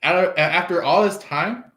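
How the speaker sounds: fast, disbelieving questions; mock surprise. You, thrown by the proposal, in mock amazement. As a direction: stumble over it in amazed disbelief.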